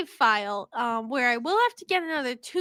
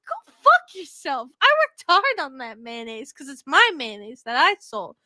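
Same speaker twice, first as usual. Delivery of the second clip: mock angry retort. To townsfolk who insulted her mayonnaise, a mock angry retort. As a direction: tell off the ungrateful townsfolk. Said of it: "I'm like".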